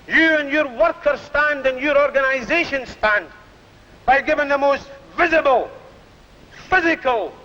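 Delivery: public address to a mass meeting; firm, measured platform oratory; rally speech. Acted. Union leader addressing mass meeting.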